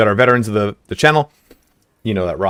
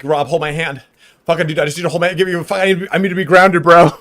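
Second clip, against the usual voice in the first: higher pleading; 7 semitones higher than usual. Retold or imitated. High guy begging his friend for grounding, strained and high. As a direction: plead with rising desperation.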